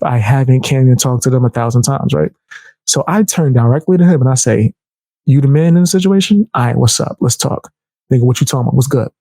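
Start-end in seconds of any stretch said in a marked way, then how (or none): 5.2-9.1 switched-up demeanor. Retold or imitated. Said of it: "I switch my whole demeanor".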